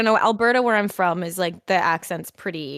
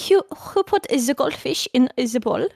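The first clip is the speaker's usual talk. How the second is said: put-on higher, muddled German-French accent; comic Franco-German accent; French-sounding German accent; 4 semitones higher than usual. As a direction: attempt German, landing nearer French. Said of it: "kind of more French than German".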